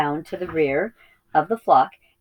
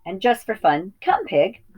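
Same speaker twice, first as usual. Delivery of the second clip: playful farmer command; 4 semitones higher than usual. Acted. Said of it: "said Hoggett".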